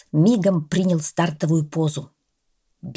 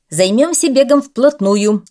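concerned; 6 semitones higher, 8 dB louder than usual. A narrator's reading. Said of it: "озабоченно сказал тренер Белый".

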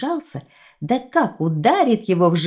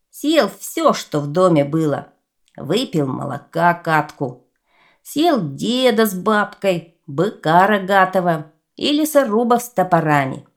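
put-on greedy clay boy voice; 3 dB louder than usual. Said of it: "Говорит им глиняный сынок".

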